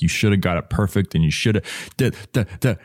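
quick, nagging mock self-scolding; lightly acted impatient telling-off; aggressive inner critic. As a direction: rattle off the reproach, trailing into nonsense syllables. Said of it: "so aggressive".

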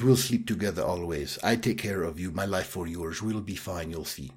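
soft, badly faked French accent; horrendous French accent. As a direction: quote the lover in a bad French accent, trailing down. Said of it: "apologize for the horrendous French accent".

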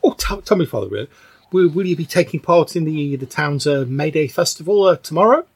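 put-on high, eager old villager; eager old churchgoer. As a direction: ask hopefully as an elderly parishioner. Game master voices old Agnes.

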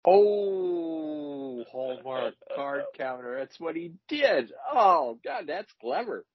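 high, laughing and delighted; cry-laugh at the clever pun. Real, not acted.

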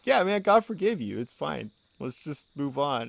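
mock-casual "it's fine"; dad shrugging off the donor's money, lightly voiced; imitating dad. Dad voiced in retold exchange.

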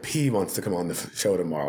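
a restrained, low-key stoic messenger. Retold or imitated. Prince's camp calling about the show, lightly stoic. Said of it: "in this voice".

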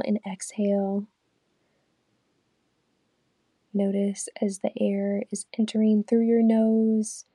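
unhurried meditation guide, long pauses between phrases; guided meditation. Real, not acted. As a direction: lead them calmly through breathing, counts evenly spaced. Leads a guided breathing meditation.

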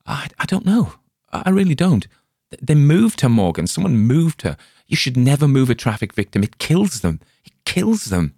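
high, loud, shaken pleading; distraught stammer. Acted. Spalner explaining to Morgan, distraught and loud.

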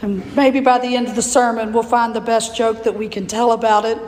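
hoarse, raspy voice from laryngitis. Real, not acted. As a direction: speak through a raspy, strained throat. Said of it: "given me this raspy voice".

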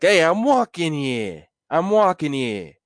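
high, slow New York yell on walking; New York tough guy. Acted. Brownie yelling at a passerby, New York accent. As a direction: shout at someone cutting your path. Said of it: "I'll be like".

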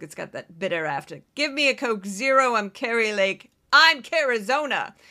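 loud, imperious self-naming diva ordering a drink; Kari Lake impression. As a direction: demand a Coke Zero in the third person. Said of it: "I think she says".

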